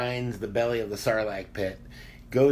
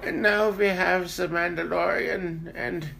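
Werner Herzog voice; 8 semitones higher than usual. Retold or imitated. Werner Herzog narrating impression.

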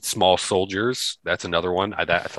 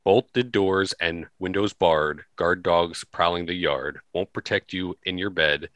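poem reading. Acted. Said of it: "read it to you".

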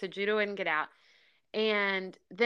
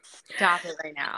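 whisper; 3 semitones lower than usual. Real, not acted. Listener overcome, whispering.

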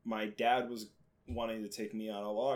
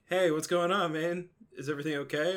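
put-on friendly teen voice; 6 semitones higher, 4 dB louder than usual. Older kids voiced in story.

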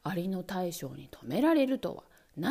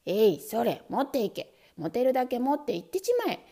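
louder, huffy scolding; angry weasel; 4 dB louder than usual. Acted. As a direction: throw him out in a huff. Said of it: "イタチはプリプリして".

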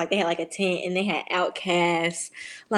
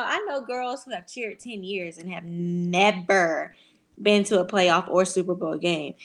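ordinary delivery

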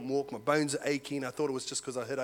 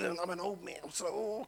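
mock weary groan; 3 semitones higher, 7 dB quieter than usual. Acting out struggling out of bed.

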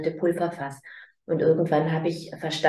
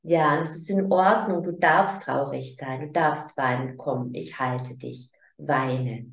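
put-on comforting a sad child. Shown as a demonstration. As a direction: hold the sad child with your voice. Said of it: "dann sag".

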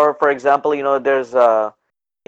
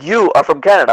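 stressed, louder "You" in mock disbelief; disbelieving; 3 semitones higher, 5 dB louder than usual. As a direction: imitate a clerk who can't believe it. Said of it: "she's having a hard time believing this".

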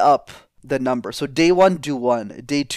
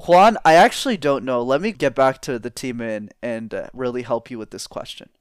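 calm, assured, steady; confident and composed. Shown as a demonstration. Leader answering a boardroom question, calmly confident. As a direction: reassure Juan like a composed leader. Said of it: "I still don't know, but the way that I'm showcasing that energy".

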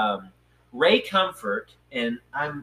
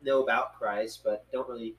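hesitant interviewee; 3 dB quieter than usual. Retold or imitated. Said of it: "they'll say".

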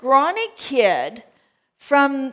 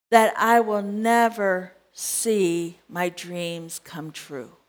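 despairing prayer; 5 dB quieter than usual. Retold or imitated. Despairing prayer voiced in sermon.

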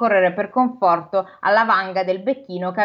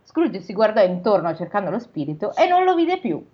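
measured storybook reading voice; steady read-aloud narration; story narration. A narrator's reading. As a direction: read it like a classic novel aloud. Reads the novel aloud.

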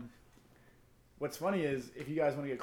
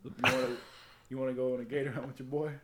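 LeBron voice. Retold or imitated. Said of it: "but in his voice".

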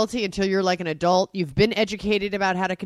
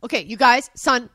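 louder, raised imitation of a parent calling for attention; mock exasperated parent; 4 semitones higher, 5 dB louder, slower than usual. Parent trying to get the kids to listen, mock exasperated.

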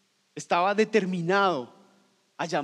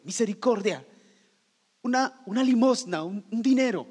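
higher, louder beggar's call; a light imitation of a street beggar asking for alms; mock beggar crying for alms; begging plea; 6 semitones higher, 4 dB louder than usual.

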